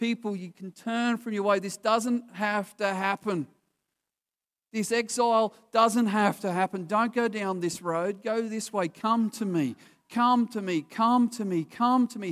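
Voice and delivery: put-on sorrowful, imploring, repeated heartfelt begging. Speaking of Isaiah, the speaker retells God's words to the people, acting out pleading. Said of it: "He pleads and he pleads".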